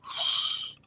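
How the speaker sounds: soft breathy whoosh; whoosh sound. Retold or imitated. Imitating her mother's slap, a soft whoosh. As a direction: blow out a swishing slap sound. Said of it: "slap me ... and go".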